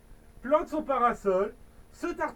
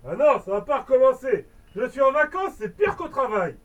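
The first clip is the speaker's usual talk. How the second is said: fed-up grumble; 6 dB louder than usual. Acted. Octopus fed up again.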